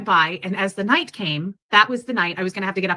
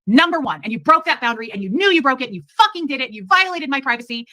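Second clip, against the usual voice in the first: higher, heated retold accusation; angry accusation; 4 semitones higher than usual. Woman replaying his quarrel over privacy, angry accusation. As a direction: throw the blame in a raised pitch.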